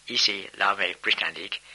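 put-on French spoken with an English accent; Anglicised French, lightly put on; awful English accent. Answering French callers on the army telephone in French with an awful English accent. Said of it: "in my awful English accent".

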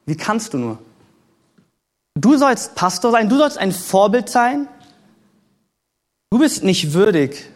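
lightly voiced accuser, drawing out each reproach. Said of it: "Die Stimme des Anklägers kommt".

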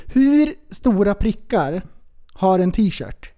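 slow and deliberate, each word spelled out for typing; slow dictation. Shown as a demonstration. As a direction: dictate "hur stora prickar" slowly, word by word.

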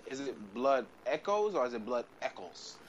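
"Echoes" then "Eccles" said slowly side by side; Echoes versus Eccles. Shown as a demonstration. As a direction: contrast "Echoes" and "Eccles" carefully. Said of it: "So here's my question".

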